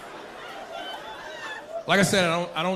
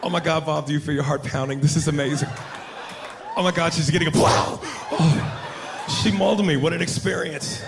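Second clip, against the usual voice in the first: hushed earnest wildlife presenter, then mauled; mock-awed safari host narrating; nature documentary host parody. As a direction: nature show host, excitement building to a yelp. Parodies white nature show host.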